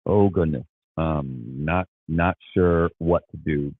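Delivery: hesitant, halting mock unease; awkward uncertainty. Acting out someone faced with crying, awkwardly unsure. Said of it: "someone starts crying".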